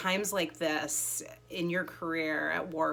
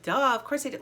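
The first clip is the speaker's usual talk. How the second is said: mocking know-it-all, higher and louder; sarcastic duh; 6 semitones higher, 5 dB louder than usual. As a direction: scoff like it was obvious. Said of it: "it's so easy now to be like".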